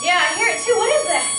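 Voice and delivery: nervous questioning of a strange sound; alarmed. Acted. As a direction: Wilma hears the noise too, alarmed. Alarm at the noise.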